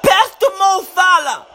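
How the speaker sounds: fan yelling instructions at the players; urgent pleading. Real, not acted. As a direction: urge them forward impatiently. Urging players during match.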